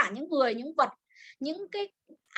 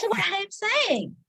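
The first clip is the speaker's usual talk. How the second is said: higher echo of what am I saying; imitating the clip; 7 semitones higher than usual. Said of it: "echoes clip line".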